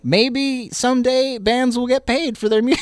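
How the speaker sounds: high voice, about to crack up; barely holding back a laugh; breaking into laughter. Real, not acted. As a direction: climb high and lose it on the last word. Cracking up at own sarcastic hope.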